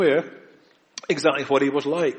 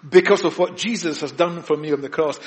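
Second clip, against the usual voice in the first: confident believer; 3 semitones higher, 4 dB louder than usual. Acted. Believer voiced with assurance.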